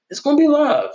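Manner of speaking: hyped. Real, not acted. Podcaster hyping the fight crowd, high and loud. Hyped repeat of his line.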